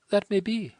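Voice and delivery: put-on a wretched girl begging her to leave; distressed French girl. A narrator's reading.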